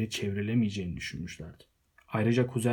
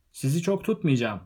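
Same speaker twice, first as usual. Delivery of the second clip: higher-pitched call to the crowd; mild cry out; 4 semitones higher, 4 dB louder than usual. A narrator's reading. Bilbo crying out to his guests, moderately raised voice. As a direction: call out over the hushed party. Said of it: "diye haykırdı".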